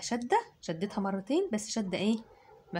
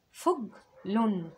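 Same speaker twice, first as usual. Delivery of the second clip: فج لن drawn out; slow it right down; very slow syllables; much slower than usual. Shown as a demonstration. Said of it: "هي عبارة عن تنوين بالضم". (فج لن ببطء)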